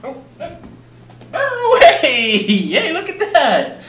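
high, laughing cheer for a pet; delighted squeal. Real, not acted. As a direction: burst out in playful glee. Cat finds speaker in game.

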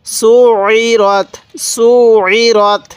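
"সু ই রথ" recited with a held throat ayn; measured teaching recitation of "সু ই রথ"; doubled ayn. Shown as a demonstration. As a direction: join "সু" to "ই" through a long ayn, then "রথ". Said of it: "এরকমভাবে শিখব".

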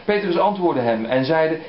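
slow, measured Bible reading; unhurried reading from the pulpit; scripture reading. Acted. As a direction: read it out with solemn weight. Reads gospel passage aloud.

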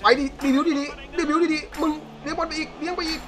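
real thrill from coaxing to cheer; building excited urging. Real, not acted. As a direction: egg the player on until it breaks into a laugh. Urging the dribbler toward goal.

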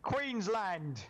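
Queensland! called out high again, a hammed-up Australian cheer; mock Aussie yell. Gamer repeating his random yell, mock Australian cheer. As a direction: belt out Queensland like a rowdy Aussie fan. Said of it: "I don't know why I felt like saying that".

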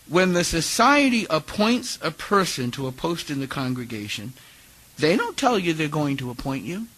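lightly put-on island accent, measured; attempted Barbadian accent. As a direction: explain patiently in a light Bajan accent. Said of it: "my attempt to do an island accent".

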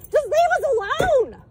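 yelling at the officer to leave them alone; yelled. Real, not acted. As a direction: yell it to make him go. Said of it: "I'm so loud".

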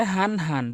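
both হান with an identical plain h; same sound twice. Retold or imitated. Teacher mimics learners' mistake, same h in both. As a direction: say হান হান with no difference between the h sounds. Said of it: "same উচ্চারণ করে".

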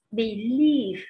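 "Believe" with the beat on "lieve"; stress on second syllable. Shown as a demonstration. Teacher reading option D for students, "Believe" stressed on "lieve". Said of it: "rơi vào âm thứ hai".

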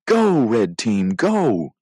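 drawn-out coach's cheer; shouting encouragement. Acted. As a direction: urge the team on from the sidelines. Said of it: "waving them on and shouting".

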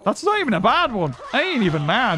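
usual speaking voice

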